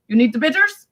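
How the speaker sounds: imitated grandmother's odd question; Nona. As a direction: ask it oddly with a rising end. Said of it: "She always said it weird".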